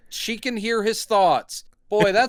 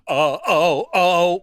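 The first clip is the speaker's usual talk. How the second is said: rhythmic swooning "oh"s; hammed-up ecstatic gasps; mock orgasmic moans; 5 dB louder, much slower than usual. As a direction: moan as if overcome by a touch. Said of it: "orgasmic immediately".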